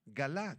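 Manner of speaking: galá, soft, with the weight on the final A; galá, stress on last A. Shown as a demonstration. Pastor repeats the Hebrew word for the class, final A stressed. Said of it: "con acento en la segunda A".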